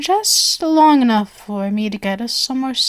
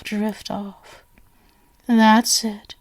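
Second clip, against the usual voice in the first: fading whisper into a shush; 2 semitones lower, 5 dB quieter, much slower than usual. Acted. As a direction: hush them into sleep. Guest drifting off.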